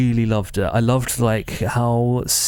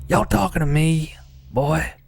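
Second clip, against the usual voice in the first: higher-pitched Texan challenge; Milda; 6 semitones higher than usual. Acted. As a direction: put on a Texan twang, pitched up. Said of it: "I'm doing a Texan accent".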